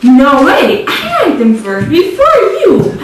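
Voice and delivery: giggling through an indignant claim; laughing protest. Acted. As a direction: protest while breaking into laughter. Rival girls argue, she laughs.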